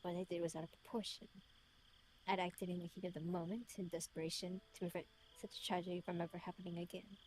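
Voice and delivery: put-on measured British-accented letter reading; his British voice. Reading his letter aloud in character, British voice. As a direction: read it as a self-reproaching British man. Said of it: "Let me read it in his voice".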